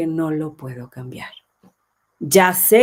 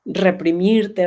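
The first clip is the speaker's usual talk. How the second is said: "reprimirte" slow and louder, falling; drawn out; 5 dB louder, much slower than usual. Real, not acted. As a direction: stretch "reprimirte" while hunting for the word. Searching for the word. ("reprimirte" alargado y más fuerte)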